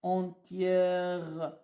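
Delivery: entièrement said slowly; slow dictation. Shown as a demonstration. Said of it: "Je suis entièrement".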